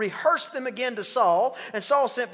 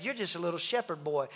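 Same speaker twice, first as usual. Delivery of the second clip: quiet scoffing; 6 semitones lower, 11 dB quieter than usual. Acted. Doubters dismiss David.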